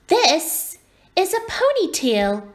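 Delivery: put-on high-pitched child's correction; indignant little girl. A narrator's reading. Little girl explains her hair to owlet, indignant. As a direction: set him straight in a high girlish voice.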